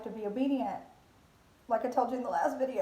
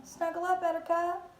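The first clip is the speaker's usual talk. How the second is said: higher, tender "Snuggle up, Buttercup"; reassuring; 9 semitones higher than usual. Retold or imitated. The Lord reassuring the worried believer, tender and high. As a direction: sing it out comfortingly. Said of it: "And so he's saying".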